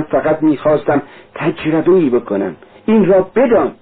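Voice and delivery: put-on a young man wrestling aloud with his guilt; Raskolnikov. Confessing to Sonya, lightly voiced tormented young man.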